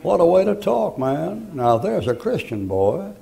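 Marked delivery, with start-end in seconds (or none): 0.0-1.5 delighted exclamation. Real, not acted. Delighted reaction to prisoner's answer.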